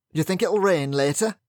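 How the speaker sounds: a touch of a booming Yorkshireman. Acted. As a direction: call it out across the lawn. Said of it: "the sudden booming voice".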